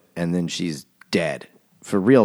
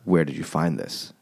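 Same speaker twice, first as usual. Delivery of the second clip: quiet take; 4 semitones lower, 6 dB quieter than usual. Shown as a demonstration. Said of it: "Not like".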